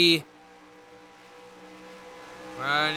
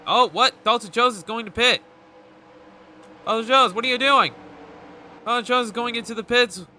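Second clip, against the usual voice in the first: surprised; 5 semitones higher, 4 dB louder than usual. Real, not acted. Driver unexpectedly pits.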